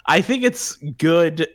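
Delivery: slow grudging praise; hedging. Real, not acted. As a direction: stretch it out with a caveat implied.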